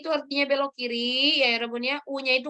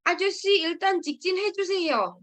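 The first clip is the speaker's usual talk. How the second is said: higher, slowed polite passenger request; passenger asking; 5 semitones higher than usual. Retold or imitated. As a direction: politely ask the driver to go straight. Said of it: "Gitu, ya".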